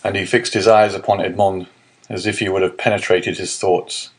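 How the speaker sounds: plain reading voice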